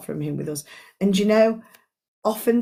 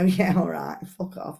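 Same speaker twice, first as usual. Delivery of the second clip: dismissive brush-off; 3 semitones lower, 3 dB quieter than usual. Retold or imitated. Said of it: "You go".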